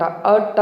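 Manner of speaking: అర్ట్ drawn out slowly as aaʈ, no r sound; slow demo of అర్ట్; silent r. Shown as a demonstration. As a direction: stretch అర్ట్ slowly with the r swallowed. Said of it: "అర్ర అని బయటికి రాకూడదు".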